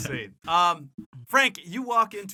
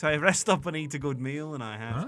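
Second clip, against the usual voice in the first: Cockney; 5 dB louder, faster than usual. Acted. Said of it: "Cockney accent".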